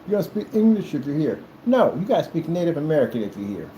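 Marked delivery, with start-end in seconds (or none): 0.1-1.4 higher-pitched imitated demand; half-shouted mocking quote; mild mock yell. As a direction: parrot someone yelling out a window. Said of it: "scream out the window and go".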